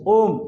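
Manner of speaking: ओम with its vowel stretched; a drawn-out ओम; prolonged om. Shown as a demonstration. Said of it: "दोनों से अधिक समय लग रहा है".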